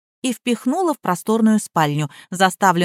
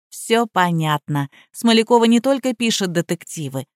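ordinary delivery

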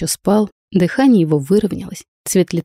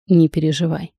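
drowsy mumble through sleep; sleep talking. Acted. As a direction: mumble it half asleep. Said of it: "сквозь сон пробормотал Кай".

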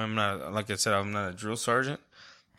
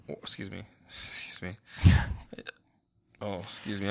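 hiccups; 3 semitones lower than usual. Real, not acted. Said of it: "I got the hiccups now".

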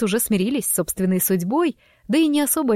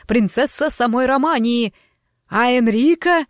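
theatrical auctioneer announcing lots; showman host. Acted. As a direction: sell the students like a showman.

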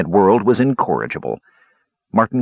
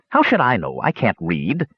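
put-on old dwarf voice; 2 semitones higher than usual. Dwarf hermit speaking.

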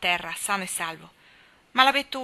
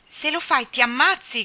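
high, loud, panicky warning yell; frightened shout; 6 semitones higher, 7 dB louder than usual. A narrator's reading. Ned terrified, yelling at Jack not to jump. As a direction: shout out of sheer terror. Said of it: "gridava Ned, quasi pazzo per lo spavento".

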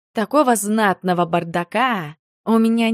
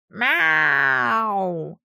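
snorting cat meow. Acted. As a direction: yowl it like a bristling cat. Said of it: "профырчал он".

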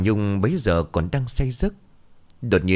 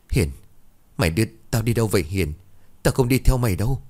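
fast, frightened pleading that rises at the end; trembling, breathless; 3 semitones higher, faster than usual. Acted. Tao, dragged off by a ghost, speaks fast and frightened. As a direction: gasp it out, scared and rushed. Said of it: "run rẩy nói không thành hơi".

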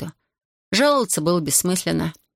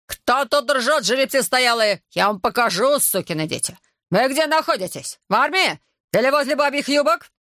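raging tirade; 6 semitones higher than usual. Acted. Corporal scolding laughing soldiers, raging. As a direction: shame them with fury.

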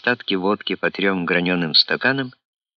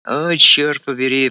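a pained groan, higher and louder; 6 semitones higher, 4 dB louder than usual. Acted. Colonel cornered by his friend's question, groaning. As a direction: moan the curse out in dismay. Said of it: "простонал Андрюлик".

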